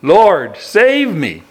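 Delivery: mild cry for help. Acted. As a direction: call out for rescue, not full-throated. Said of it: "he cried out".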